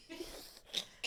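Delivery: high laughing words. Real, not acted. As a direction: laugh through the line. Both crack up over coochie secrets.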